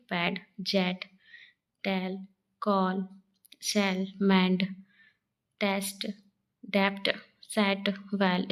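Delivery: पैड, जेट, टेल with an open short 'e'; short 'e' demo. Shown as a demonstration. Teacher reading examples of E, open vowel in जेट and टेल. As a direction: separate each word, open 'e' in टेस्ट and सेट. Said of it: "उसमें ई का उच्चारण होता है".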